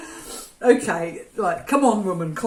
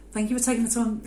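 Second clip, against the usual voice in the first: a bit low; faster than usual. Real, not acted. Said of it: "Oh, I went a bit low then".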